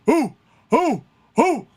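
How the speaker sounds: short, high hoots; quick rising-and-dropping "ooh" like a crowd. Retold or imitated. Crowd reacting to the wrestler, hooting.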